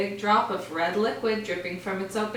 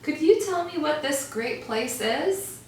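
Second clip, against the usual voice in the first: high call; 7 semitones higher than usual. Acted. Calling up to bat.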